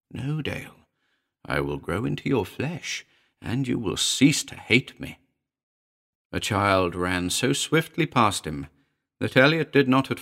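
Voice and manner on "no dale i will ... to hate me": insinuating little familiar. Acted. The familiar answers its master.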